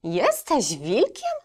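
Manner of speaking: a bit disappointed. Acted. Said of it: "zawołała nieco rozczarowana".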